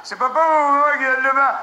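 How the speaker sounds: loud playful question; parent asking. Acted. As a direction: ask it up high, teasing.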